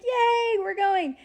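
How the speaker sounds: high squealing cheer; bubbly sorority girl. Retold or imitated. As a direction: squeal it like a giddy sorority sister. Cheering as recruit runs home.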